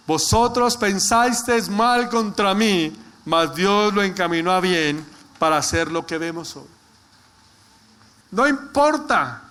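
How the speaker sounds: slow, drawn-out scripture proclamation; emphatic preaching. Real, not acted. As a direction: proclaim each phrase firmly to the congregation. Proclaims scripture at full force.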